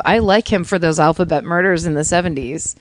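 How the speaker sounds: hint of a hard-boiled cop; lightly voiced noir detective line. Shown as a demonstration. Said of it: "I'm gonna say it like a detective".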